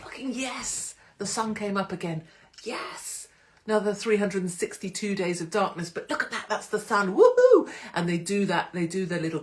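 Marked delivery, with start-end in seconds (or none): 0.0-7.2 lightly hammed-up, higher, giddy delight at one day of sun; mock happy Finns. Mocking Finns cheering the sunrise, giddy and higher. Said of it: "they're like". 7.2-7.7 much higher, much louder woohoo; mock cheer. Finns celebrating the sun, a shrieked woohoo. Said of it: "they're like".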